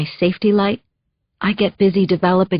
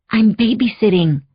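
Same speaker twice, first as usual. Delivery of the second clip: put-on a light Spanish accent, answering the phone; lightly accented hello, picking up; Maria's accent. The housekeeper picks up, in a light Spanish accent. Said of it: "her accent".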